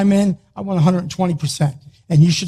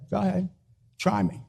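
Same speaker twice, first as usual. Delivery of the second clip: Philly accent; faster than usual. Shown as a demonstration. Athlete answering "why me" with a Philly-accent dare. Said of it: "in your best Philly accent and say".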